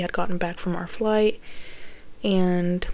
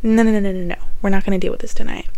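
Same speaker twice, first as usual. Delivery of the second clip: louder, brushing it off hard; dismissive refusal; 5 dB louder than usual. Retold or imitated. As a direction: wave the whole idea away, loud. Brushing off mom's hospital demand.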